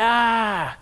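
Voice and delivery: long, open mock scream; hammed-up wail of overload; overwhelmed cry. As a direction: let out an exasperated "aah". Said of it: "that's how Moses is feeling".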